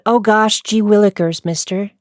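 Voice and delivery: lightly voiced gee-whiz kid; a hint of an innocent old-timey boy; wholesome 1950s kid. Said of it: "I'm just gonna put".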